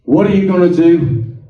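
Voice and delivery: lightly voiced God, a little firmer; God speaking. Speaker quotes God's question to Alan, lightly voiced God. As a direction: put the question as God would, mildly. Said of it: "He said".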